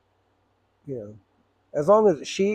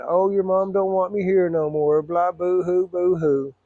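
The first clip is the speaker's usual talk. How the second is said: slow, higher, whiny imitation of a crying father; mock crying dad; 4 semitones higher, slower than usual. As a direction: mimic dad's sobbing plea, mocking it. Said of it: "He'd be crying".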